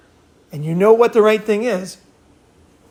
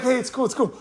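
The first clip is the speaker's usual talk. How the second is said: softer, higher calming voice; retold soothing; 5 semitones higher, 7 dB quieter than usual. Man calming a shaking girl in the store, retold soothing. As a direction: gently talk someone down.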